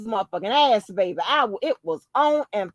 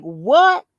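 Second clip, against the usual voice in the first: shocked what; 5 dB louder than usual. Retold or imitated. Shocked reply.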